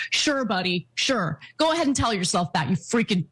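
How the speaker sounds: sarcastic sure buddy. Real, not acted. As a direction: brush him off with contempt. Sarcastic dismissal.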